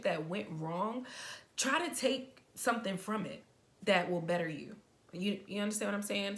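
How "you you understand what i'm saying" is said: tripping over words, fast; stumbling over words from excitement; stuttering. Real, not acted. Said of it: "I'm stuttering a lot".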